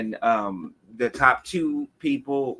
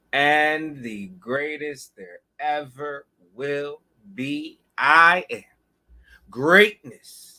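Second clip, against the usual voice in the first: loud, grand bragging proclamation; boastful; 2 semitones higher, 6 dB louder, slower than usual. Pretend. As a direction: boast like a wrestling champ. Self-hype entrance, loud grand boasts.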